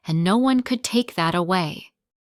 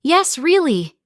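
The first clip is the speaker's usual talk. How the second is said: smiling voice; 9 semitones higher, 5 dB louder than usual. A narrator's reading. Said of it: "I could hear the smile in her voice".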